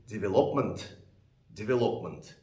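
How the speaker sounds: "development" mispronounced with the stress moved off "ve"; wrong word stress. Shown as a demonstration. Teacher showing what loses points, "development" wrongly stressed. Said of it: "they will lose the points".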